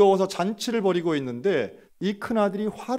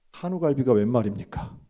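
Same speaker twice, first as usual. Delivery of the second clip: indignant outcry; 4 semitones lower, 3 dB louder than usual. Retold or imitated. Elder son's indignant punchline.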